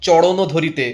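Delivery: চরণও said "choṛono", R turned into a flap; stylised song pronunciation. Retold or imitated. Mimicking stylised singers' lyrics, চরণও with a ড় sound. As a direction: curl the র in চরণও into ড়. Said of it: "এরকম ব্যাপারটা হয়ে যায়".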